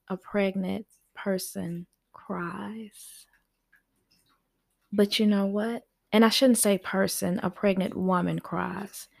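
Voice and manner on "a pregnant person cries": whisper. Real, not acted. Soft aside ending a list.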